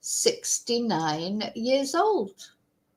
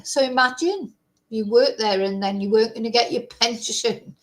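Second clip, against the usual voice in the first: nervous laugh. Real, not acted. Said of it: "it's a nervous laugh that I laugh".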